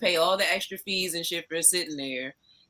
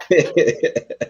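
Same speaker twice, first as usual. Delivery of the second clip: ordinary talk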